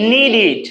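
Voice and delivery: "Need it", ending in a short "-id"; "-ed" pronounced "-it". Shown as a demonstration. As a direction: say "Need it" as nee-did, clear i in the ending. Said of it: "আর দেখুন ডিইডি আছে না". ("Need it"-এর শেষে স্পষ্ট "ইড" উচ্চারণ)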